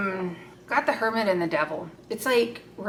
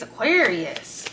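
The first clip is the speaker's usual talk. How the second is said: drawn out name; 3 dB louder, much slower than usual. Shown as a demonstration. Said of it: "Like that face?".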